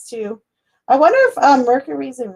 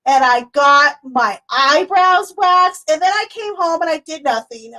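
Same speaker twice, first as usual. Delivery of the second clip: higher, slow listing voice; imitating Melissa; 4 semitones higher, slower than usual. Quoting Melissa's busy day, high and slow. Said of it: "She's like".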